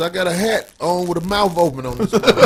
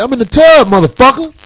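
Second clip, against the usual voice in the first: higher, louder retold yell through the door; 7 semitones higher, 7 dB louder than usual. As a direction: bark it back at the guard. Retold yelling at security.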